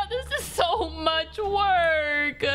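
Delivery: slow, panting complaint; out of breath. Acted. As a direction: gasp it out while running. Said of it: "I'm already out of breath".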